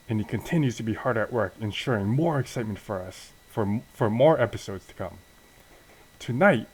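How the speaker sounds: lively wrestling announcer rundown; punched-up show preview with lifted pitch. Acted. Announcer runs down tonight's show, hyped-up announcer delivery.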